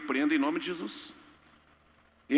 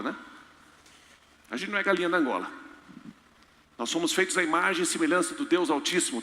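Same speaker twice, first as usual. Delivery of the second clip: ordinary talk, nothing marked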